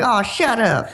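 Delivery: high mock-scandalized girl voice; imitated playful scolding. Voices women scolding him playfully.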